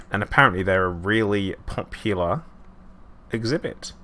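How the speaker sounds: a slight unintended Australian lilt on really popular; Australian vowels creeping in by accident; a touch of Australian accent; slipping into Australian. Real, not acted. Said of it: "that sounded super, super Australian then".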